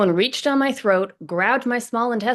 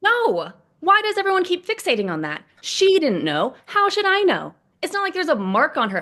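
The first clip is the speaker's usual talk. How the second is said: exasperated outburst; 5 semitones higher than usual. Acted. Ross bursts out defensively.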